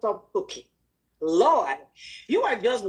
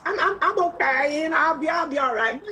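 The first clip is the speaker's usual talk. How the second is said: mock timid self; 5 semitones higher than usual. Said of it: "I would just say".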